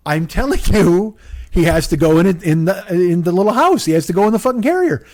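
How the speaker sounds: acting out a fed-up woman laying down the rules; insist, losing patience; exasperated insisting. Retold gate argument, woman insisting.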